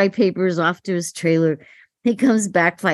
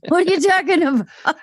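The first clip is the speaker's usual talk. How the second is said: incredulous outburst; 9 semitones higher than usual. Retold or imitated. Actress to director, incredulous high outburst. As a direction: protest in shock down the phone. Retelling panicked call to director.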